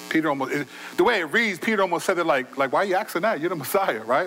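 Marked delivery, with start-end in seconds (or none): 2.7-4.0 casual, obvious-answer delivery; matter-of-fact. Acted. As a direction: answer as if it's nothing special. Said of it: "It was matter of fact".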